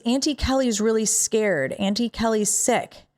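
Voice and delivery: a hint of a two-year-old's voice; little niece. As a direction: imitate a small child telling mommy. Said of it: "my little niece was, like, two and a half".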